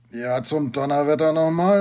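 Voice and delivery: loud, rising outburst; exasperated teacher raising his voice; exclaiming. A narrator's reading. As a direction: burst out loudly, pitch lifted. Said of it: "rief der Justus".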